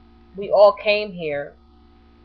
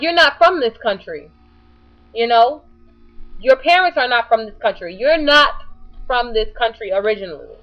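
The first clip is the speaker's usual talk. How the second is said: raised, emphatic correction, easing at the end; worked-up, higher-pitched rebuttal; retold indignant telling-off; 3 semitones higher, 4 dB louder than usual. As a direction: retell setting him straight, forcefully. Retells telling the man off.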